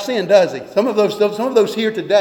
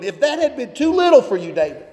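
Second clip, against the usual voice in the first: raised, rebuking voice of God; God's rebuke delivered higher; the Lord speaking; 4 semitones higher than usual. Retold or imitated. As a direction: preach it as God confronting David. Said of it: "this is the Lord speaking".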